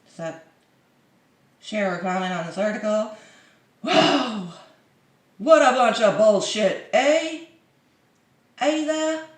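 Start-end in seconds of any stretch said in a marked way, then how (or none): 3.8-9.2 louder mock accent with high eh; mock Canadian. Vlogger mocking a commenter, mock Canadian accent. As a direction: ham up the eh.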